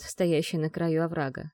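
normal talking voice

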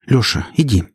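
a quick urgent push. A narrator's reading. Heroine urges Lyokha quickly to go. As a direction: hurry him out the door. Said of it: "быстро сказала я".

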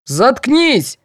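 guard barking at the prisoner; barked. A narrator's reading. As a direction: snap shut up at her. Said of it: "рявкнул охранник".

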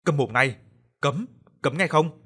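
loud, slow angry snap at his wife; furious outburst. A narrator's reading. Old man silencing his wife, loud slow fury. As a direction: bite off each word in rage. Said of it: "nổi giận đùng đùng".

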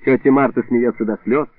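ordinary delivery

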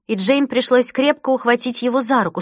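ordinary delivery, nothing marked

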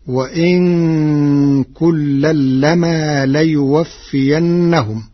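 وإن with a light, unstressed nun, slow and deliberate; Warsh reading with light nun. Shown as a demonstration. Teacher reciting the verse in Warsh's reading, slow and careful. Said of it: "قرأ ورش كلمة وإن بتخفيف النون ساكنة".

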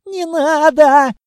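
high, loud, slow wail; howling plea. A narrator's reading. Panicked shopkeeper begging them not to break the door. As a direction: howl it in panic. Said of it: "взвыл торговец".

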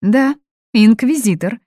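threaten, owning the word; menacing. A narrator's reading. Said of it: "грозно произнесла Фатини".

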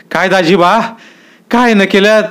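high, nervous surprised question; startled greeting. A narrator's reading. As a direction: force a welcome through fear. Startled Aba greets intruders. (घाबरून आश्चर्याने विचारणं)

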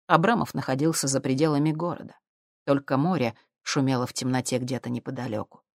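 ordinary delivery

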